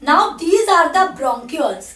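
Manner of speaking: very slow, each word spaced out for note-taking; slow dictation. Shown as a demonstration. Teacher dictating a label to students, very slowly. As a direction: spell it out slowly so they can write. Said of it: "dictating labels to students".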